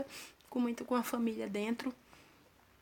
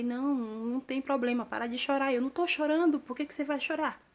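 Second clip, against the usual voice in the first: put-on raised, higher voice urging the girls to stop crying; half-called reassurance to the little ones; calming crying kids; 4 semitones higher, 4 dB louder than usual. Acalmando crianças chorando no acidente. (irmã mais velha pedindo alto às crianças que parem de chorar)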